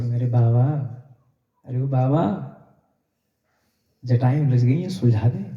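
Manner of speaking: sweet voice. Acted. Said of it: "इस बार तो इतने मीठे स्वर".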